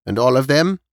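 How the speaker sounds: put-on high-pitched elderly storyteller; elderly neighbour listing past deaths, pitched high; old woman recounting. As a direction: pass on old building gossip in a high old-lady voice. Voices old Missus Knight.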